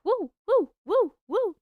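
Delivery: high, loud party cheer; cheering woo. Real, not acted. Author cheering viewers who bought her book, high whoops. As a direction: whoop it up for the buyer.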